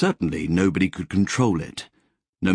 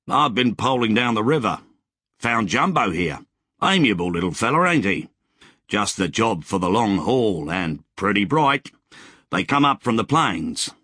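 put-on cheerful old settler; 2 semitones higher than usual. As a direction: play the friendly grizzled rider greeting a stranger. Wally's voice in dialogue.

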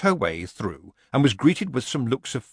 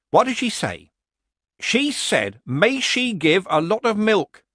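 higher, louder villager voice playing innocent; nervous villager; 10 semitones higher, 4 dB louder than usual. A narrator's reading. Villager pretending innocence to Nanny Ogg. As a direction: feign surprise like a bad amateur actor.

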